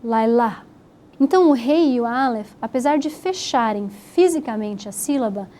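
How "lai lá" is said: lai, lá with the last vowel left open; open final syllable. Shown as a demonstration. Teacher showing how the open sound works, lá ending on an open vowel. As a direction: leave the A of lá open, no closing consonant. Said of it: "deixar em aberto aquele som".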